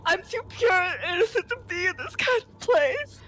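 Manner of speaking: high fake sobbing plea; mock crying. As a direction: beg with hammed-up tears. Begging at auction.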